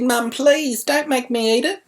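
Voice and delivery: high, lightly voiced whiny kid; pleading child. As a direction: beg like a scared little girl. Daughter pleading in retold story.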